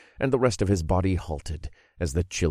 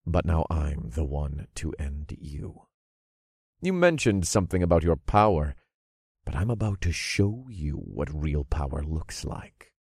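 quiet menace; 3 semitones lower, 4 dB quieter than usual. Acted. Villain threatens quietly.

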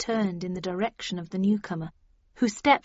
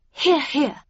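higher-pitched Catherine Linton, chiming in; a brief approving interjection, pitched up; murmured agreement; 7 semitones higher, 5 dB louder than usual. A narrator's reading. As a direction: chime in with a high-voiced murmur of agreement. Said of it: "murmured Catherine Linton".

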